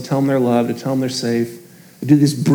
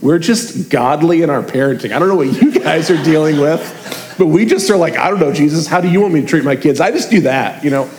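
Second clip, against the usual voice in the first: mock smug boast. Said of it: "I wish I could be like".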